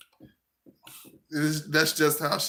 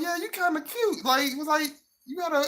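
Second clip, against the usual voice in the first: hammed-up sly flirting; mock flirty woman; 12 semitones higher than usual. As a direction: sweet-talk him up high. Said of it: "She like".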